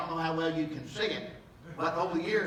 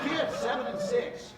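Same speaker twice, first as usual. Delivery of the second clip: laughing; 9 semitones higher than usual. Real, not acted. Laughing at his own childhood story.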